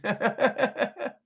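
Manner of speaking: high-pitched joking protest; playful squeal of pretend dismissal; teasing mock comeback. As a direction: repeat the tease in a high, hammed-up voice. Repeats the joke while laughing.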